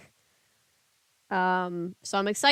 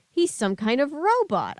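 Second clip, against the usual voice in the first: high amazed realization; amazed realization of robot; 5 semitones higher than usual. Acted. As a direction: gasp it out in wonder. Amazed discovery.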